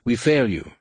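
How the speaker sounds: understated snarled confession of a bodyguard; snarling. A narrator's reading. Noghri bodyguard admits failure to Leia, snarling mildly. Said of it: "one snarled".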